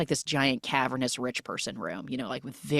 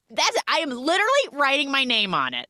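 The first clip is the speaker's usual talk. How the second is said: mock exasperation; 9 semitones higher than usual. Acted exasperation over lighter.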